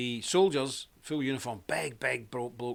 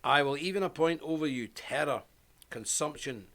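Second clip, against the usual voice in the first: measured, formal Bible reading; scripture reading; 3 dB louder than usual. A narrator's reading. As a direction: read it out as solemn scripture, with weighted phrases. Reads Bible passage aloud.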